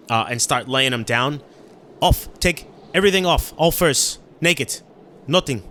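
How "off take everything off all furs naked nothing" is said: raised, urgent one-word commands; urgent orders. Acted. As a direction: order them about in quick bursts. Character orders everyone to strip.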